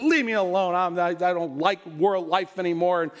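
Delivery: mildly voiced pouting king; whiny tantrum. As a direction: whine like a three-year-old in a lightly voiced sulk. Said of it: "throwing a little temper tantrum".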